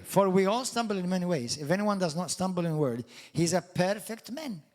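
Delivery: preacher reads James aloud to the church, declaiming; scripture reading. Acted. Preacher reads the verse to the congregation, declaiming.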